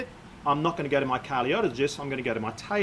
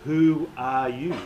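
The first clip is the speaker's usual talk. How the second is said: slow, drowsy lightly voiced caterpillar; languid, sleepy caterpillar; 3 semitones lower, slower than usual. A narrator's reading. Caterpillar lazily questions Alice in a slow, sleepy voice. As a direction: drag the words out half asleep. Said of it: "addressed her in a languid, sleepy voice".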